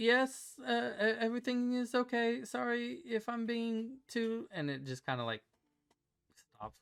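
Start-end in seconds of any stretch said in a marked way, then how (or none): 0.0-4.5 weak, faint, very high, slow voice. During a game, a character answers a knock at her door in a faint voice. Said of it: "you hear like a faint voice".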